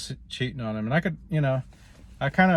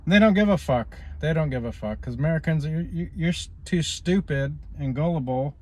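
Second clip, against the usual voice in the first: louder, higher, heated outburst at the lies; angry rant; 5 semitones higher, 5 dB louder than usual. Real, not acted. Vlogger rails at officials lying to Americans, loud angry rant. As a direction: spit it out in disgust, raising the voice.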